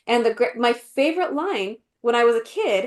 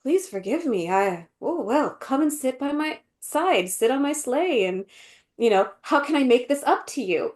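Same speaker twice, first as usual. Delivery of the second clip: changed, apologetic delivery. Retold or imitated. Imitating the Queen changing her mind, mock apologetic. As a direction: imitate someone suddenly coaxing forgiveness. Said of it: "she changes her delivery to make it seem like".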